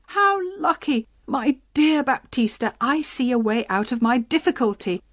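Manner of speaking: gleeful, bubbling with relief; giddy with a sudden way out; happy excitement. Acted. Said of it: "began to dance happily".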